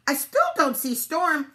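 high, loud duck lookout; called down. A narrator's reading. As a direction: call the news down from above. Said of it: "Duck called down again".

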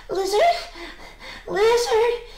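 high, loud, eager calls; calling out. A narrator's reading. Alexander seeks the lizard in the bush, calling out. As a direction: call out urgently into the bushes. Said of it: "he called quickly".

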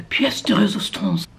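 French phrase with a lifted lilt; French accent. Shown as a demonstration. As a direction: say it with playful French flourish. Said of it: "That's French".

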